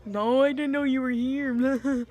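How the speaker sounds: high, slow, giddy mock laughter; imitated giddy laughing. Patient on gas spotting her stepdad, imitated giddy laughing. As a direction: draw it out high, breaking into a pretend laugh. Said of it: "I started laughing my ass off".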